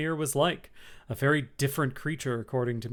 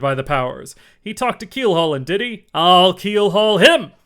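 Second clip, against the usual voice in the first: loud, high eager sailor talk; quite excited; 4 semitones higher, 8 dB louder than usual. A narrator's reading. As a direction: get worked up, ending on a threat. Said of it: "now quite excited".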